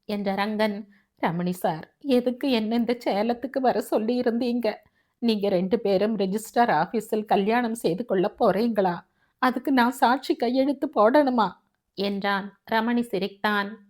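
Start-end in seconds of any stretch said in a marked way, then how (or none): 1.2-11.5 a hint of a complaining underling; lightly voiced Rangan, aggrieved. Rangan asks Ramani why he was summoned, lightly aggrieved. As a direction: lightly put on a questioning character voice.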